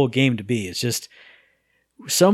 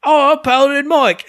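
mock groan; 13 semitones higher, 7 dB louder, slower than usual. Groaning at the reveal.

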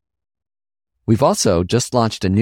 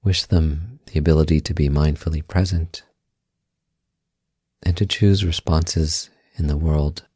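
calm, unhurried meditation guide with long pauses; guided meditation; 2 semitones lower than usual. Acted. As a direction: guide them gently inward, leaving space after each phrase.

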